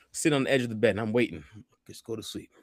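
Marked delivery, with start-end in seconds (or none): 1.9-2.5 hushed urging. Retold or imitated. Urging friend to sleep.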